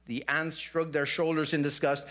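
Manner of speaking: lively storytelling voice; story narration. Acted. Pastor tells the congregation Aesop's fable, lively. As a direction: tell the fable with lightly voiced characters.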